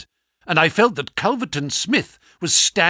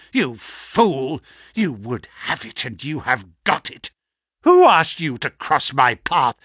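cold gloating menace; 4 dB louder than usual. Acted. Villain gloats over victim.

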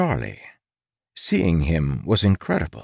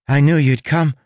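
put-on eager, joyful young man; excited relief; 7 semitones higher, 4 dB louder than usual. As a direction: burst out with happy relief. Charlie rushes to Tress.

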